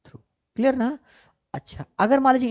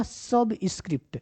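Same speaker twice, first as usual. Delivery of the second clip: slow, falling सबस्क्रिप्ट; careful term reading; 4 dB quieter, slower than usual. Shown as a demonstration. Teacher repeats the option's name for learners, slowly.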